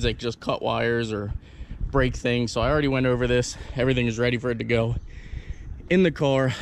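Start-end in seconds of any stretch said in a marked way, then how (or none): 2.5-6.5 breathless, rushing the words; out of breath. Real, not acted. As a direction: talk fast while still winded. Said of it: "Sorry, I'm out of breath".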